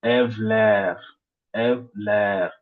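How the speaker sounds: Evler with "ler" drawn out and stressed; teacher's demo of Evler, weight moved onto "ler"; stress on last suffix. Shown as a demonstration. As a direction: lean on the final syllable of Evler. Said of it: "l'accent va se déplacer vers ce dernier suffixe".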